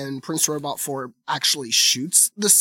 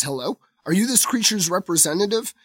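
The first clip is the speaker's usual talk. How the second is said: lightly voiced polite robot prince; 5 semitones higher than usual. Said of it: "of course, in a British accent".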